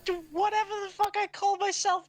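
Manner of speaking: hammed-up dying little guy; mock dying lament. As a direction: wail it like a hammy death. Little Joe dying dramatically.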